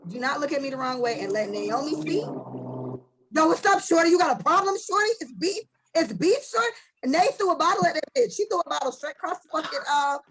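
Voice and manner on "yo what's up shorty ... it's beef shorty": put-on drunk Nay. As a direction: step up to her for a fight. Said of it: "when Nay gets drunk".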